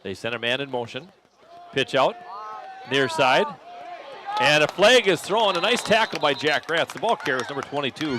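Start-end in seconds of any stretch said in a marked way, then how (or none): 1.7-6.9 rising play-by-play, louder and higher; excited call. Real, not acted. Live call of a penalty play.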